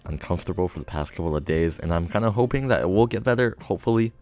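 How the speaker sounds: lisping through new braces. Real, not acted. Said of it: "sorry for my lisp in this video".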